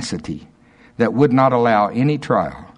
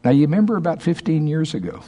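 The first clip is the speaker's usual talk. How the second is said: gleeful mock reminder; 6 semitones higher, faster than usual. Imitating Dave's gotcha question.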